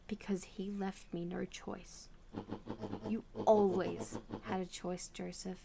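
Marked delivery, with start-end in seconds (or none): 0.1-2.1 slow whispered confession. Acted. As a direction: whisper it in shame. Joseph confessing quietly.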